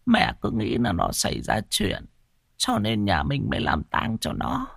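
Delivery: put-on soft, hushed old woman's lament; sighing grandmother. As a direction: sigh it out with relief. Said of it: "vuốt tay lên ngực mà than".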